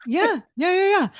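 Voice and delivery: high, laughing yeah yeahs. Real, not acted. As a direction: agree while laughing. Laughing agreement after a joke.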